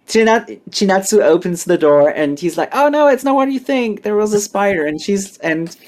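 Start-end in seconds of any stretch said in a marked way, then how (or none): 2.7-4.9 high-pitched, hurried-to-explain protest; mock panicked excuse. Boy caught with girl explains to Chinatsu, mock panicked. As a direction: plead innocence in a much higher voice.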